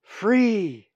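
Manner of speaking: high, loud, drawn-out cry; exultant cry. A narrator's reading. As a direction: cry it out in release. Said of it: "he cried".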